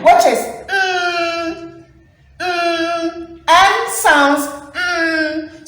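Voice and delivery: "mm" hummed long and slow; held mm sound. Shown as a demonstration. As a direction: stretch out the "mm" hum. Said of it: "my ending sound for hen is N".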